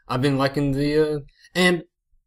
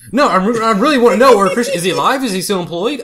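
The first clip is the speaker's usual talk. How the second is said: laughing; 6 semitones higher, 8 dB louder than usual. Real, not acted. Insisting while laughing.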